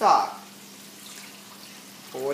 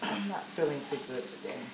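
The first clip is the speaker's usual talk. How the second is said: a bit sick; 3 semitones lower, 5 dB quieter than usual. Real, not acted. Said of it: "I'm a little sick tonight".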